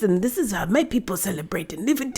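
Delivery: softly imitated African accent; mock African accent. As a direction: lightly put on a cartoon African accent. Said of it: "they literally tried to say".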